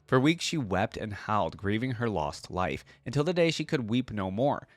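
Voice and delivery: measured dramatic lore reading; story narration. A narrator's reading. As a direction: read it like a fantasy audiobook. Reads champion lore aloud.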